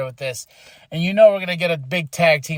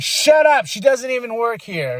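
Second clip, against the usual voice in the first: retold irritated retort, pitched higher; mock indignation, high on the first words; 5 semitones higher than usual. Becky silencing a chanting crowd, mock irritated.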